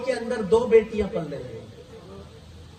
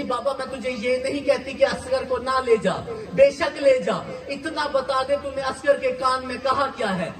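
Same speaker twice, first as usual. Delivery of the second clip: crying; 3 semitones higher than usual. Acted. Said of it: "रो रो के कहती थी".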